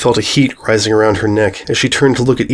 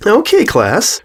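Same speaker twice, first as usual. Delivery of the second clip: burbling cheer; 11 semitones higher, much slower than usual. A narrator's reading. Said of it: "she burbled".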